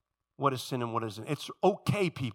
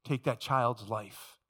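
restrained indignation; 2 semitones lower, 4 dB quieter, slower than usual. Acted. Preacher confronting those who take a child's life, quietly indignant. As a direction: reproach them gravely without raising the voice. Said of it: "you can become indignant".

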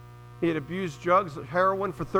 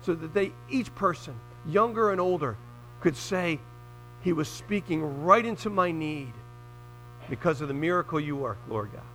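earnest spoken prayer to God. Real, not acted. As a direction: pray sincerely for the congregation. Opening prayer before the sermon.

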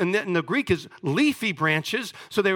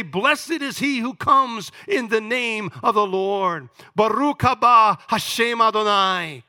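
proclaiming; 2 semitones higher, 4 dB louder, slower than usual. Acted. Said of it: "Then they say".

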